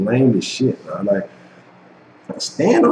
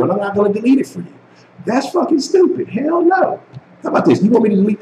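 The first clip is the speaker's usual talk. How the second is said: much higher, indignant refusal; heated rant; 9 semitones higher than usual. Real, not acted. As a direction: fire back, fed up and outraged. Refusing to delete his video.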